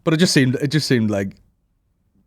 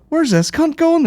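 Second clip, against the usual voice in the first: very high, loud squawk; shouted indignant question; 5 dB louder, slower than usual. Acted. Orphans left behind as one is picked, shouting after them. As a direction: yell it after the lucky one.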